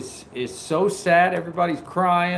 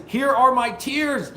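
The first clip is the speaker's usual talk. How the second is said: mock weepy quote; 10 semitones higher, slower than usual. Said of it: "He says".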